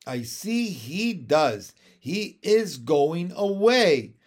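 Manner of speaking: dismayed cry. A narrator's reading. Miss Lark watching Andrew leave, dismayed cry. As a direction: wail it slowly, word by word. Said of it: "cried Miss Lark".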